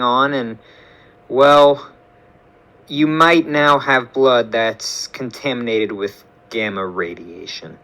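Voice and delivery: a hint of a kindly doctor, slowed; gentle doctor voice. Helen voiced by narrator.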